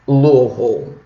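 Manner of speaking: Louisville as LOO-uh-vul, pressed a little; local pronunciation. Shown as a demonstration. Telling viewers how people from that city say it, Louisville as LOO-uh-vul. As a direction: say Louisville the residents' way, s dropped, middle swallowed. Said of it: "People that have lived there".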